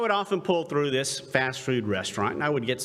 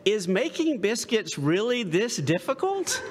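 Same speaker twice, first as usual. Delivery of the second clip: higher-pitched retold exasperation; exasperated customer; 6 semitones higher than usual. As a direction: ask it in mock exasperated disbelief. Retold exasperated customer questioning worker.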